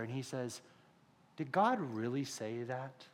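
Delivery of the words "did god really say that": slow, soft, tempting question; lightly voiced serpent sowing doubt, drawn out; deceiving serpent. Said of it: "and he deceives her".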